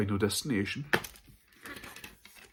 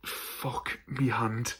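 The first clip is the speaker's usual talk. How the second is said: in pain; 2 semitones higher, much slower than usual. Real, not acted. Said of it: "I injured my hand today".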